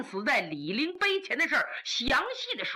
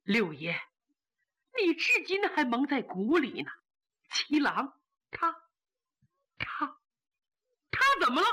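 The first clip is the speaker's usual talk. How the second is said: tearful. Acted. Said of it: "泪如雨下".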